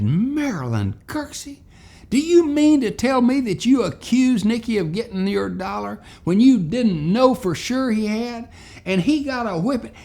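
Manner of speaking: high, loud, scolding outburst; teacher hollering. Retold or imitated. Miss Hortense hollering at Marilyn in high, loud anger. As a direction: let her have it like an outraged schoolteacher. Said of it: "don't holler at me".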